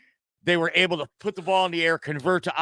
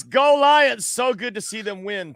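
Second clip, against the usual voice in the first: high, loud cheer on the first words, then easing down; excited cheer; 5 semitones higher, 4 dB louder, slower than usual. Retold or imitated. Co-host reading a fan's comment to the show, cheering. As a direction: read out a fan's cheer with gusto.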